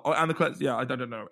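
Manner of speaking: real stumbling over false starts; tripping over the words; stammering. Real, not acted. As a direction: lose your thread and restart mid-word. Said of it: "Anyway, I'm stammering".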